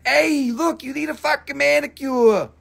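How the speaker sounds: high, teasing put-down; playful fake insult; mock jab. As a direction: needle them about their nails, lightly voiced. Imagined jab at viewer's fingers.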